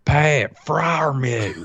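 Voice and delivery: put-on slow drawn-out country accent; country twang. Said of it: "Say it with a country twang".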